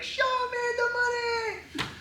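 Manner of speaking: very high hammed-up shout; high shrieked movie line; mock movie shout. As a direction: yell it like the movie climax. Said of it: "And then he goes like".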